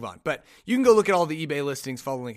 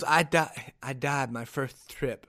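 lightly lisped boxer impression, slow; a hint of a lisping boxer; half-formed lispy impression; Mike Tyson; 2 semitones lower, slower than usual. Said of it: "working on my Mike Tyson impression".

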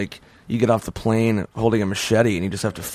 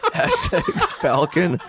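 slow hashtag drawl; 2 semitones higher, slower than usual. Shown as a demonstration. Drawn-out hashtags while laughing.

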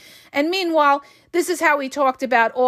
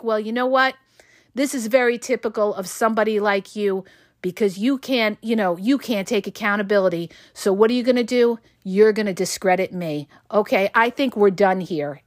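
cool and calm; 4 semitones lower than usual. Shown as a demonstration. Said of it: "You gotta be cool, calm, and collect".

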